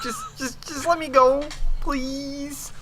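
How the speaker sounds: pleading, cracking into a squeak. Acted. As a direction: beg to be let go. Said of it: "He pleaded".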